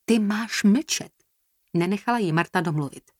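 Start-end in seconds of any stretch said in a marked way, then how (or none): 0.1-1.1 slow, higher-pitched command; heated silencing; angry interruption. A narrator's reading. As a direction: cut in and stretch out the order. Marta cuts Jasmine off in quarrel.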